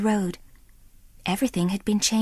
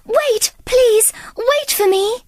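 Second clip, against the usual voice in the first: high, louder calling after them; 12 semitones higher, 4 dB louder, slower than usual. A narrator's reading. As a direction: call out to make them wait.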